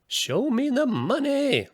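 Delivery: hammed-up Jerry Maguire yell; movie quote shout. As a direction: belt it like the movie character. Quoting Jerry Maguire line.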